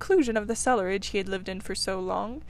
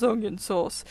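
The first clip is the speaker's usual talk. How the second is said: jeering taunts. Acted. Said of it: "he remarked jeeringly".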